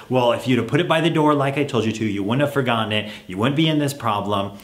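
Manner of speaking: fast, lecturing tone; scolding parent. Shown as a demonstration. Parent lecturing child who forgot homework, mild scolding. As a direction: mildly scold the kid, I-told-you-so. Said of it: "when you talk like that to your kid".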